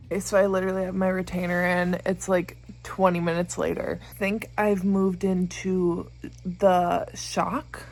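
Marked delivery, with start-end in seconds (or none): 4.1-7.8 slow near-whisper; whispered shock. Real, not acted. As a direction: let it come out hollow and hushed. Late night grief over chapter.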